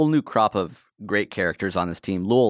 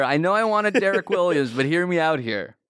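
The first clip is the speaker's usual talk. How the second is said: put-on teen caller; 5 semitones higher than usual. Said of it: "fifteen-year-old here".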